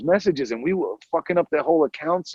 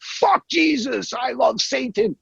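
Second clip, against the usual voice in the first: mock Satan guy; 9 semitones higher, slower than usual. Retold prank call, guy angry.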